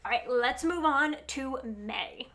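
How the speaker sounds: blocked nose from allergies; stuffy nose. Real, not acted. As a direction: speak through a stuffy nose. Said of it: "if I sound super stuffy".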